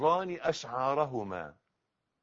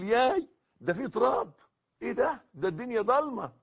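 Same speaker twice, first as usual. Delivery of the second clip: higher-pitched, squeamish fussing; mock pampered whining; 7 semitones higher, 4 dB louder than usual. Preacher mimicking a pampered newcomer to the grave, mock whining. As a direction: fuss daintily, mocking someone too spoiled for dirt. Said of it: "مفيش دلع هناك بقى".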